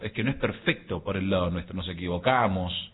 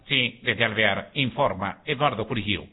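robot voice. Pretend. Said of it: "sí, con voz de robot".

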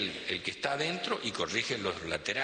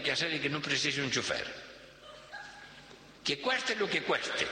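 much higher, demanding rich boss voice; 7 semitones higher than usual. Retold or imitated. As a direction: play the pushy millionaire giving orders. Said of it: "Le dice".

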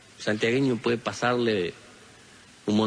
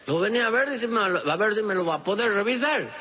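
voiced sick man; 11 semitones higher than usual. Sick Florentín asks for help.

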